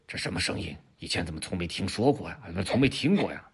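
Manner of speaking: 压低声音, 又惊又疑; 像躲着的老虎悄悄自问; 老虎小声嘀咕. Acted. 老虎受惊后小声嘀咕. (受惊的老虎压着嗓子发问)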